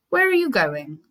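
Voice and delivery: wolf whispering the question; sly whisper. Acted. The wolf whispering slyly to the girl. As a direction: breathe it like a sneaky wolf. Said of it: "he asked".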